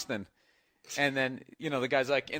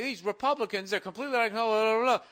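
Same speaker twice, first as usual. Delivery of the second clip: higher-pitched mock indignant caller; mocking caller rant; 8 semitones higher, 5 dB louder than usual. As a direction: rattle on as a fake outraged caller. Mocking phony political callers.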